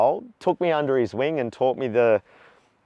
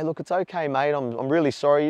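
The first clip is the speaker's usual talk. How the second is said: apologetic calm; 5 semitones higher than usual. Shown as a demonstration. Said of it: "you say".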